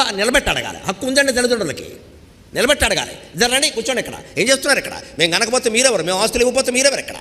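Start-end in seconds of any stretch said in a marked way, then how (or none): 3.1-7.1 raised voice, demanding and quick; firm demanding parent. Retold or imitated. Father confronting son and daughter-in-law in a raised, demanding voice. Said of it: "అని గట్టిగా మాట్లాడాలమ్మా".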